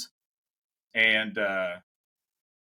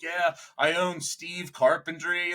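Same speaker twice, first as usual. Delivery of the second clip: higher, slow, proud small-business owner; a light sketch of a proud local; fake Steve persona; 5 semitones higher, slower than usual. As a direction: boast about a made-up company. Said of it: "I was, like, telling them".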